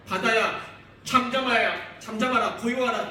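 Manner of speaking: loud rebuke to the sea; commanding rebuke. Retold or imitated. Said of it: "바람을 꾸짖으시고". (바다를 꾸짖는 큰 명령조)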